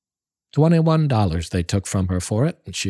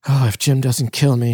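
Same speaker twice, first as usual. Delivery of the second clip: Della worrying; 3 semitones higher, 4 dB louder than usual. Acted. Della's worried voice.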